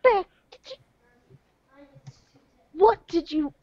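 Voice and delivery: shocked. Acted. Shocked at her pet.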